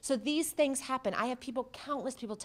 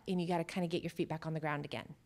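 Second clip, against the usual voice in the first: whisper; 4 semitones lower, 6 dB quieter, faster than usual. Real, not acted. Advising grounding after stress.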